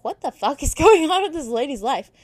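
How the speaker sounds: baffled outburst with a laugh in it; acted disbelief. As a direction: exclaim it in amused mock shock. Voices reader's baffled reaction.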